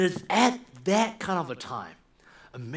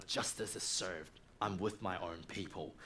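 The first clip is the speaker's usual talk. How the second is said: quiet inner thought; 10 semitones lower, 12 dB quieter than usual. Acted. Moses's private thought.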